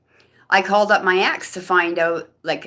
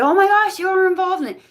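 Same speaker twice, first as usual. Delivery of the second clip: much higher and louder, stunned; shocked outburst; 13 semitones higher, 5 dB louder, faster than usual. Retold or imitated. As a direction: blurt it out in disbelief. Shocked accusation at her friend.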